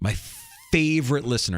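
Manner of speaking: thick, exaggerated sarcasm with swooping pitch. Complaining about a kind of listener to a co-host: very sarcastic. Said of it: "I'm being very sarcastic".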